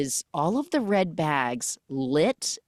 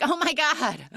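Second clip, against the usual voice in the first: flustered apology; 11 semitones higher, 3 dB louder than usual. Retold or imitated. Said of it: "She's like".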